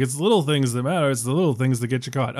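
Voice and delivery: fast, lightly voiced old radio announcer; 1930s radio announcer. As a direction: rattle it off like a vintage radio host. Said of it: "I went for, like, a nineteen thirties radio announcer".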